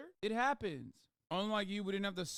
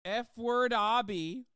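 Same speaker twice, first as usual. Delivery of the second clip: mocking gym poster; 4 dB louder than usual. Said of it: "Fresh and fit".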